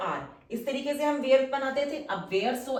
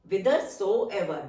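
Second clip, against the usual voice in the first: each syllable stretched very slowly; slow dictation; 3 semitones lower, much slower than usual. Shown as a demonstration. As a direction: say it slowly so students can write it. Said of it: "teacher dictates word slowly". (धीमा श्रुतलेख)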